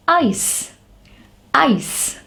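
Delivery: "ice" starting high, with I as its letter name; long I sound. Shown as a demonstration. Teacher giving an example of long vowels, long I. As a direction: say "ice" twice, separately, long eye vowel. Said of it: "In long sound, the letter is pronounced".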